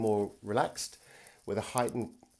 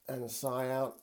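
controlled sigh; 3 semitones higher, 4 dB quieter, slower than usual. Shown as a demonstration. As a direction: sigh the words out softly. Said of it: "a controlled sigh".

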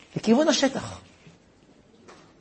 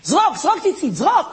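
high urgent calls to throw; urgent policeman; 6 semitones higher than usual. Retold or imitated. Policeman urging the rabbi to throw, high and urgent. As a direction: urge him to throw it now. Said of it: "ואומר לי".

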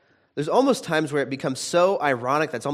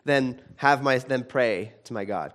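defiant Jonah; 3 semitones higher, 4 dB louder than usual. Retold or imitated. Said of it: "that's kind of what happens here".

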